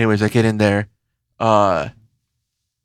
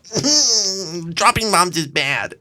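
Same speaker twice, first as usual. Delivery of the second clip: mock prissy scientist; 5 semitones higher, much slower than usual. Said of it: "They're like".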